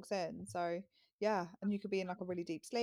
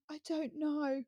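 put-on whiny child; 8 semitones higher, slower than usual. Toddler's answer voiced.

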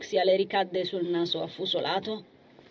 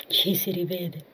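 gentle. Acted. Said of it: "interloquì l'angelo con dolcezza".

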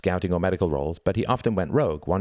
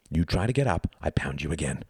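hissed threat. Acted. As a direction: threaten him under your breath. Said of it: "hissed Tom".

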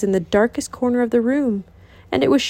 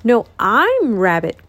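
cried out; slower than usual. Acted. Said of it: "cried the rabbit".

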